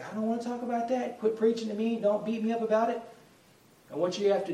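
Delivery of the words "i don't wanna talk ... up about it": higher-pitched exasperated protest; mock irritated pushback; upset loved one. Loved one annoyed by gospel talk, higher exasperated protest. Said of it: "they just get crazy and say".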